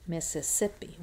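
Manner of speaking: Mississippi with the weight on "sip"; stress on SIP. Shown as a demonstration. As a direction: make "sip" the strongest syllable of "Mississippi". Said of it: "It's the sip that has the tonic stress".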